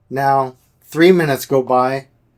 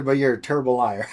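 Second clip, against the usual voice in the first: laughing; faster than usual. Retold or imitated. Quoting doctor while laughing.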